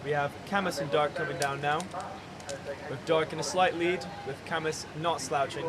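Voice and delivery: crunching while talking; words round a cold mouthful; eating ice cream. Real, not acted. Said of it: "I apologise for any, uh, crunching noises".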